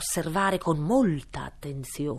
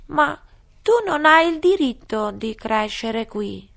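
high, loud squeaky scolding; high indignant dormouse; 5 semitones higher, 10 dB louder than usual. Acted. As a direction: protest like a tiny creature. (ghiro indignato)

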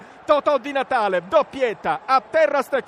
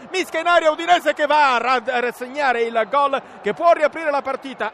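normal talking voice

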